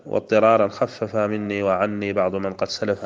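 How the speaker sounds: measured chant of a grammar verse; lightly chanted verse; verse recitation. Acted. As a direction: recite the line like a poem.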